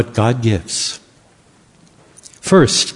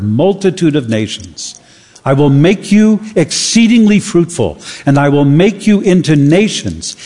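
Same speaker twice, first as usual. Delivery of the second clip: scripture reading; 2 semitones lower than usual. Acted. Preacher reading Genesis to the church, measured and solemn. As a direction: read God's words to the congregation with weight.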